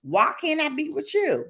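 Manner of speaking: high pleading mock whine; lightly voiced pleading pet; whiny dog voice. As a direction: voice the dog begging to be let out. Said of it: "she's like".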